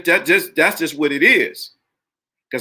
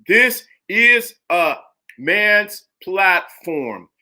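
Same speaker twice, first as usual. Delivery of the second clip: slow emphasis; 3 semitones higher, much slower than usual. Real, not acted. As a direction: spell it out slowly for the chat. Stressing his show's message.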